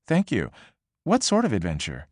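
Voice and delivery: newscaster voice. Acted. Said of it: "sounding like a newscaster's".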